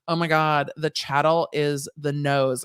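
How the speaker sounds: slow, dazed mock answer; stunned classmate. Classmate in class slowly realizing, dazed mock answer. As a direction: drag it out like a student having a revelation. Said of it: "this guy was like".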